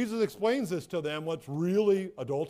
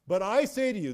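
"I" stressed, raised and firm; emphatic I; 4 semitones higher, 4 dB louder than usual. Shown as a demonstration. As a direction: lean firmly on the word "I". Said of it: "this is emphatic".

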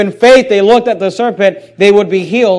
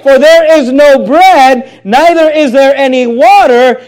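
whiny complaint; 5 semitones higher, 6 dB louder, slower than usual. Retold or imitated. Voicing the people's complaint again.

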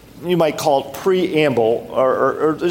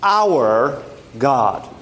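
slow, weighty recitation of the verse; solemn scripture reading; much slower than usual. Acted. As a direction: intone it like sacred text. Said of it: "It says".

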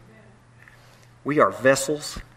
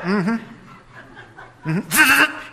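laughing; 9 semitones higher than usual. Real, not acted. Laughing mock agreement.

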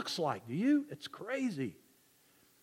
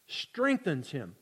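soft echo; 5 semitones lower, 8 dB quieter, slower than usual. Shown as a demonstration.

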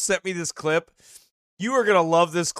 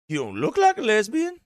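mock teasing line; 5 semitones higher than usual. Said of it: "Like that, like that".

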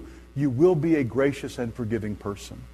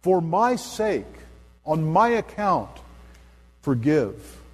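tender plea; 3 semitones higher, slower than usual. Acted. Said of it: "He's saying".

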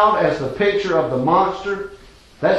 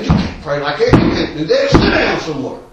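inner voice; 4 dB louder than usual. Retold or imitated. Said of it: "something in the back of my mind was saying".

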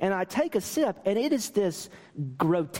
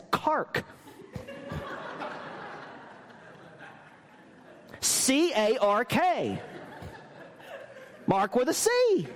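laughing; 9 semitones higher, slower than usual. Real, not acted. Laughing at the misspelt cup.

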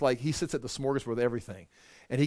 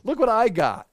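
boastful glee; 5 semitones higher, 5 dB louder, slower than usual. Retold or imitated. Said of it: "It's like".

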